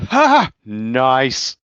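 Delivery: loud, high mock whoop of approval; gleeful cheer. Wit applauding from the back, gleeful cheer. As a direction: call out approval like a lone heckler.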